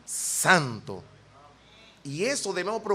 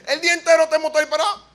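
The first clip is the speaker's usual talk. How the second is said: fast words through laughter, higher and louder; laughing while talking; 10 semitones higher, 9 dB louder, much faster than usual. Real, not acted. Preacher telling the congregation about the idle motorbike, laughing. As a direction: push it out giggling.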